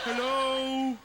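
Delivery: high, loud repeated hello; calling out. Acted. Calling out again on the mountain, high and loud.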